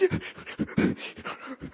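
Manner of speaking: mock sniffling, breathy sobs; imitated sobbing. Man recalling his uncontrollable weeping at church, imitated sobbing. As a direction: act out helpless, wordless weeping. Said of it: "I start weeping ... I'm like".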